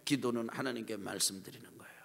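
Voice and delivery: soft unvoiced whisper of 기도는 하나님께 말씀드리는 거예요; hushed repeat. Shown as a demonstration.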